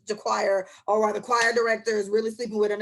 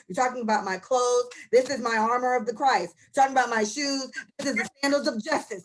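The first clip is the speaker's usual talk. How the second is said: mock preachy quote. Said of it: "this is how the fuck she's talking".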